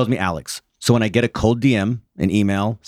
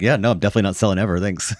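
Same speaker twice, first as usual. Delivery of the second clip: too nice. Retold or imitated. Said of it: "I'm too nice".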